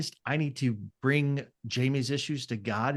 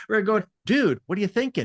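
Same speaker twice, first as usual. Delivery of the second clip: guy talk; 5 semitones higher, 5 dB louder than usual. Retold or imitated. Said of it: "I was gonna go into guy talk".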